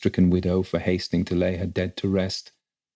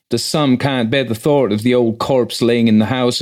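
rustic, higher-pitched flustered servant; agitated housekeeper; 3 semitones higher, 4 dB louder than usual. Acted. Housekeeper reporting the death to the rector, flustered. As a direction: chatter on anxiously in country dialect.

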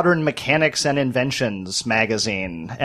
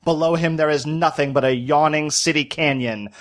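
put-on old-timey newsreel voice. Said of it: "old-timey newsreel voice".

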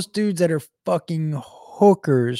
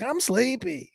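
sleepy voice; 9 semitones higher, 7 dB quieter, slower than usual. Retold or imitated. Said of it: "one was like".

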